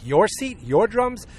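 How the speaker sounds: retold furious teacher scoffing; outraged bandleader. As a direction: throw his words back at him, incredulous. Bandleader mocks drummer's claim.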